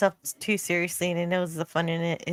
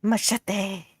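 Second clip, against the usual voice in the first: epic trailer voice. Pretend. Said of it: "say machete in an epic trailer voice".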